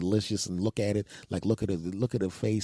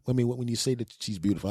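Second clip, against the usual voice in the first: normal talking voice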